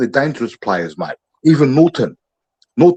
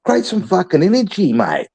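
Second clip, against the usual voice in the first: fired-up coach; 6 semitones higher than usual. Acted. Playing coach firing up players.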